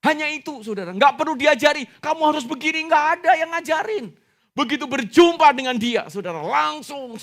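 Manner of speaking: high, loud, driving sermon delivery; full-force preaching. Real, not acted. Preacher urges congregation that nobody taught him, full-force.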